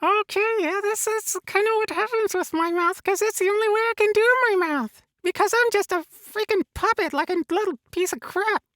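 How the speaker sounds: a lightly voiced cheery Elmo puppet; chirpy puppet character talking to the host. Puppet Elmo chatting with the host, lightly voiced.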